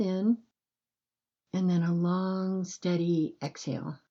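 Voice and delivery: calm, unhurried breathing guidance with long pauses; gentle bedtime meditation voice, measured and spacious; guided meditation. Acted.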